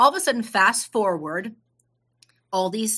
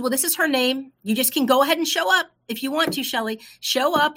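insistent friend; 5 semitones higher, 4 dB louder than usual. Retold or imitated. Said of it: "She said".

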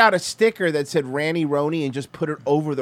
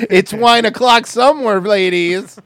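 tipsy wine mom; 5 dB louder than usual. Pretend. Wine mom joke line.

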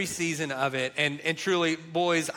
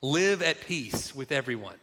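scripture reading; 4 semitones lower than usual. Shown as a demonstration. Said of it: "and it says this".

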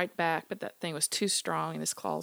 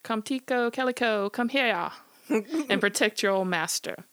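calling dogs; 6 semitones higher, 5 dB louder than usual. Acted. Smitty calls his dogs for protection, loud high holler. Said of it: "Then he called".

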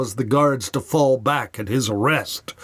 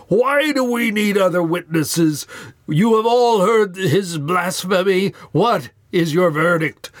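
outraged high priest; 5 semitones higher than usual. Acted. The horrified high priest demands a verdict from the council, outraged.

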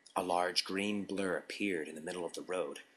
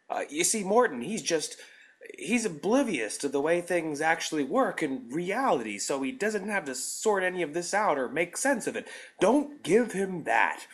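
loud, flustered, high protest; defensive stammering plea; 10 semitones higher, 8 dB louder than usual. A narrator's reading. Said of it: "stuttering off an explanation".

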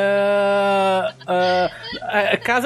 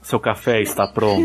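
Darth Vader voice; 10 semitones lower than usual. Pretend. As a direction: speak like a masked dark lord. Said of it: "pelo Darth Vader".

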